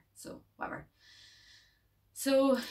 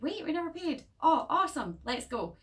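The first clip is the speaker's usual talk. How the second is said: put-on gleeful kid; 10 semitones higher than usual. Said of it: "a little boy's like".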